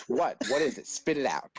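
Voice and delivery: mildly impatient mock teacher. Teacher to a stuttering pupil, imitated impatience. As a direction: prod him with quick questions.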